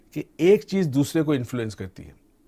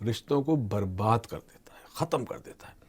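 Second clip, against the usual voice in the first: whispered warning; 2 semitones lower, 4 dB quieter than usual. Real, not acted. Doctor warning viewers how anger destroys bonds, whispered. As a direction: drop to a whisper on the ruin.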